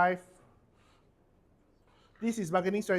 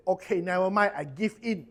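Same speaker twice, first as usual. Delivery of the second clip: louder show of giving in; mock concession; 2 semitones higher, 6 dB louder than usual. Negotiator pretending to give in to a buyer, loud mock concession. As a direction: act out reluctantly backing down.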